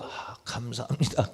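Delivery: soft, sweet thank-you; quiet demo of answering with gratitude; mock grateful. Shown as a demonstration. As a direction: say thanks gently even when annoyed. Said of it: "짜증날 때도".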